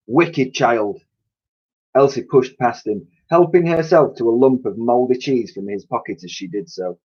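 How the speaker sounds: lively read-aloud storytelling voice; story narration. A narrator's reading. Teacher reads novel aloud.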